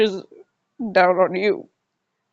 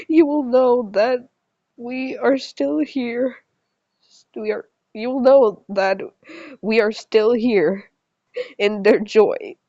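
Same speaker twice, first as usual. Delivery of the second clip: deliberate read-aloud with pauses between phrases; story narration. A narrator's reading. Character consoling a child about his coming death, earnest story narration. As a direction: read the farewell as a measured, earnest speech.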